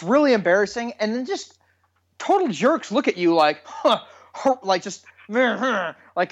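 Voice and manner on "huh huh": higher, indignant little huffs; mock angry huffing. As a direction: imitate a glaring stranger huffing. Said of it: "just really mad at you".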